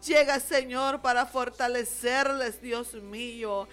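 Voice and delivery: pleading, rolling intercessory prayer; fervent prayer. Real, not acted. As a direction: plead with God for grieving families.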